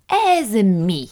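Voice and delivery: loftily disdainful; lofty question. A narrator's reading. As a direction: ask it from on high. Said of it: "kérdezte Jukrics fennkölten".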